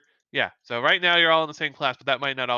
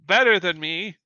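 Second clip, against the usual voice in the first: lightly voiced tough instructor, raised pitch; challenging instructor; 3 semitones higher than usual. Powerless instructor daring students to fight, lightly acted challenge. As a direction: lay down a challenge to the class. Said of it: "She's like".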